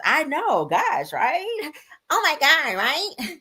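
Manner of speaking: high excited. Retold or imitated. Reading Mel's quote animatedly.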